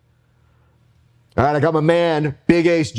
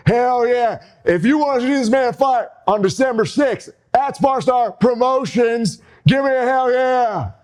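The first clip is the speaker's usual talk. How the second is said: higher, hyped-up ring promo; wrestling promo; 4 semitones higher than usual. Pretend. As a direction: finish the promo to pump up the fans. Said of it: "I'm gonna bring it home right now".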